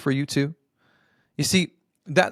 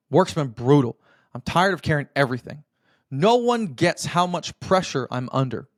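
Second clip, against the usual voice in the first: complaining husband. Shown as a demonstration. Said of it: "The old way usually sounds like this".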